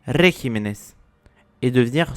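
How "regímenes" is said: regímenes stressed on the ri syllable; rule-breaking stress. Shown as a demonstration. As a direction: say regímenes with the accent on ri. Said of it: "si le mot suivait la règle".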